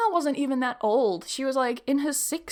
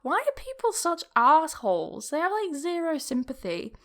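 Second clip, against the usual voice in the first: indignant; 4 semitones higher than usual. Retold or imitated. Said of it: "I just remember thinking".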